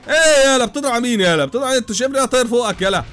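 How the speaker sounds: loud, high angry yelling at the pilot. Real, not acted. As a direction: shout him down for firing at you. Yelling at the attacking plane.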